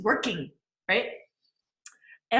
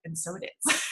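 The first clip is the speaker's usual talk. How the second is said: soft affirmation; 5 semitones lower, 6 dB quieter than usual. Shown as a demonstration. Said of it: "I say".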